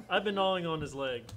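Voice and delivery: high, loud, giggling through the words; laughing. Real, not acted. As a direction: joke while laughing. Laughing joke between laughs.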